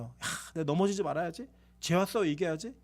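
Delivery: soft, low self-talk; quiet resolve. Acted. Worshipper vowing to himself after the sermon, quietly resolute. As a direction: softly voice a private vow.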